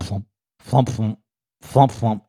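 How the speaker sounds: imitated wiper, rhythmic flumps with pauses; windshield wiper thumps. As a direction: thump like a lone wiper blade.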